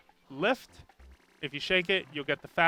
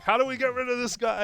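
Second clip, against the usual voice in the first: higher, baffled cartoon voice; confused enemies; 9 semitones higher, 4 dB louder than usual. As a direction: voice the puzzled Hammer Bros. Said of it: "they're just like".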